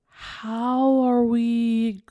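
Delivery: slow, drawn-out stunned question; shocked disbelief. Retold or imitated. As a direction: stretch it out in disbelief. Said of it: "I'm just like".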